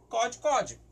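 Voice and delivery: cod, cod with a clear O, drawn out; O sound. Shown as a demonstration. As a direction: model cod, cod slowly with an O vowel. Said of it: "ele tem som de O".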